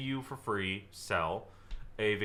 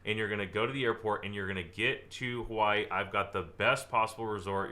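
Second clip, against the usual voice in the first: upbeat outcome pitch. Shown as a demonstration. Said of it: "I'd say".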